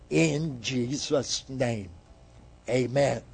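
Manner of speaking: prayer. Acted. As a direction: lead the congregation in prayer, pausing between phrases. Leads closing prayer.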